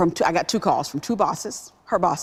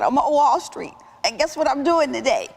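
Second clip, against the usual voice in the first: higher, eager telling of big news; calling her mom from Wall Street, higher and thrilled; excited news; 10 semitones higher than usual. Retold or imitated.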